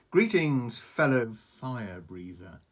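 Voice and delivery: loud, slow dragon greeting; menacing dragon. Acted. Hunting dragon greeting Toothless, loud and slow. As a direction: greet the newcomer like a threat. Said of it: "hissed Newt's Breath".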